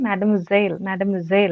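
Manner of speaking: മാഡം വിസേൽ said as ma-dam vi-zel, stress on വിസേൽ; teacher modelling the word; model pronunciation. Shown as a demonstration. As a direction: repeat മാഡം വിസേൽ clearly for students. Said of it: "ഇങ്ങനെയാണ് pronounce ചെയ്യുന്നത്".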